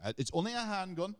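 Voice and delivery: high, laughing innocent excuse; laughing mock excuse. Joking to a gun seller, laughing. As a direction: shrug it off through a laugh. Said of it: "I'm like".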